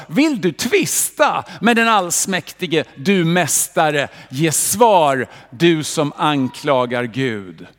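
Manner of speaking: voice of God. Acted. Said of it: "Och Herren svarade Job, han sa".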